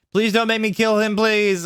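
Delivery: high-pitched mock pleading; begging. A narrator's reading. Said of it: "I begged".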